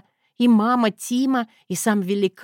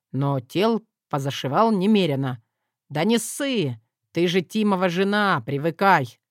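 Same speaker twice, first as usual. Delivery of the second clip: put-on young doctor voice; 2 semitones lower than usual.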